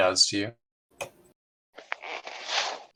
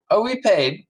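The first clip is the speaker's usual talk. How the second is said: much higher, louder sailor voice; first mate settled; 10 semitones higher, 5 dB louder than usual. Acted. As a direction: close the deal with satisfaction. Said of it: "and he goes".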